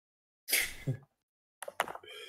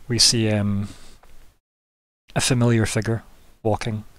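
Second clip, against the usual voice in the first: hushed scene-setting, measured and unhurried; game master narration; 3 semitones lower, 5 dB quieter than usual. Acted. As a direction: set the scene quietly, with suspense.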